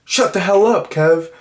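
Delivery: high mock snap at her brother; mock yell at brother. Patty snapping at her brother at dinner, high mock yell. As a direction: bark it like a sister fed up. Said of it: "she's like".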